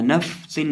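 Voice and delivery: नफसिन with a long, dragged फ; wrongly drawn-out fa. Shown as a demonstration. Teacher repeating the error to avoid, stretched फ in नफसिन. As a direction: linger too long on the फ of नफसिन. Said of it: "नफसिन नहीं".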